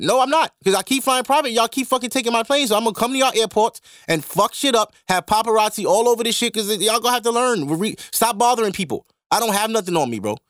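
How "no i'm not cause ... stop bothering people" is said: defiant pretend Meek. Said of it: "Yo, Meek, you gotta start flying private".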